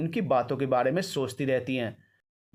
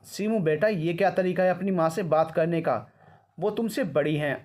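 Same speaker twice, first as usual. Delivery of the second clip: raised stern grandmother scolding; 3 semitones higher than usual. Acted. Grandmother scolding Simmi for rudeness, stern. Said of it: "डांटते हुए कहा".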